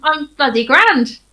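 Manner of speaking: bad Welsh lilt, drawn out; terrible Welsh accent. Real, not acted. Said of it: "my terrible Welsh accent".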